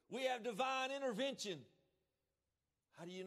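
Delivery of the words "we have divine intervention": rising proclamation. Real, not acted. Preacher building to a shout.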